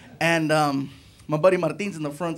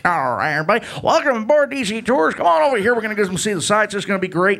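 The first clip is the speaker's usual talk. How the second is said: tour guide; 3 semitones higher, 4 dB louder than usual. Retold or imitated. Tour guide hyping the bus.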